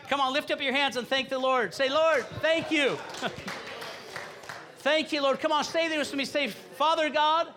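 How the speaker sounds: full-voiced worship-leader prayer; fervent leading prayer. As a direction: lift the whole room into praise. Leads congregation in loud prayer.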